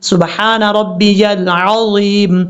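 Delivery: سبحان ربی العظیم slow, with the ی and ع sounded clearly; slow, careful recited tasbih; clear fast tasbih. Shown as a demonstration. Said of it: "اگر آپ جلدی بھی پڑھتے ہیں".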